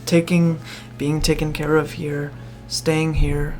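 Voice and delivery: usual speaking voice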